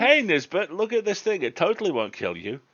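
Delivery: high, loud sing-song taunt; mock teasing dare. Friend teasing Nisbet with the cursed picture, high mock taunt. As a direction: dangle the creepy thing at your friend.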